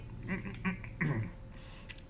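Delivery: prim little throat clear before speaking; nerdy throat clear. Acted. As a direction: clear the throat like a fussy professor. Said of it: "That's just my nerd voice".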